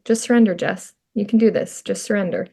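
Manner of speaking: gentle retold reassurance; calm coaxing. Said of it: "just so calm".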